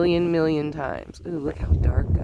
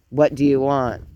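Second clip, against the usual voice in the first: monotone; 4 semitones lower than usual. Retold or imitated. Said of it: "she said it's very monotone, just no emotion".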